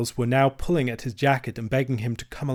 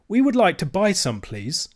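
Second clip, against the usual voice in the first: polite; 7 semitones higher than usual. Acted. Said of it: "said Robert politely".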